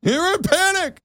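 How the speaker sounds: mock the critic in a high squeak; squeaky mockery of a heckler. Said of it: "they're freaking out over it".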